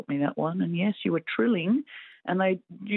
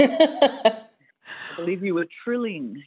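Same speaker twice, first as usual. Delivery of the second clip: laughing; 3 semitones higher, 6 dB louder, much slower than usual. Real, not acted. Caller laughs at the trill.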